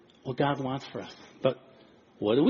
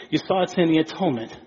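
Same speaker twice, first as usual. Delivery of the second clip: ordinary talk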